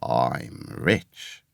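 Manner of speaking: low, hushed secretive confiding; near-whisper. A narrator's reading. Castaway sharing his secret with Jim, low and hushed. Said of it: "lowering his voice to a whisper".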